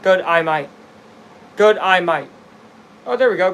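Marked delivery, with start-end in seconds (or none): 0.0-2.3 testing an Aussie accent; light Australian twang on each word. Shown as a demonstration. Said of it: "does that sound Australian".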